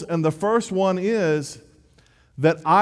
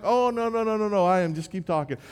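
hasty protest; 4 semitones higher, faster than usual. Retold or imitated. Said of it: "I'm like".

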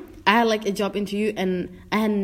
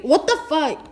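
higher-pitched startled objection; indignant disbelief; 6 semitones higher, 4 dB louder than usual. Real, not acted. Friend reacting to an anti-anime conclusion, indignant disbelief.

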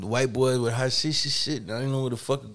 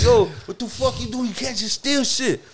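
mock scolding clerk; 8 semitones higher than usual.

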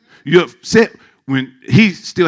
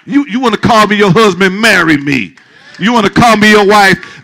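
preaching loud; 4 semitones higher, 4 dB louder than usual. Real, not acted. Preacher calling out a crowd.

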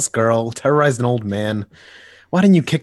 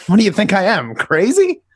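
high, loud, mock-outraged lunatic; 9 semitones higher, 6 dB louder than usual. Joker voicing the lunatic in his joke, high and loud. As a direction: play up the crazy man's indignation. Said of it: "he says".

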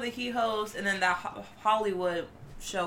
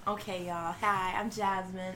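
Southern accent; 6 dB quieter than usual. Real, not acted. Guest introducing herself to the podcast, Southern accent. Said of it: "What voice is that?".

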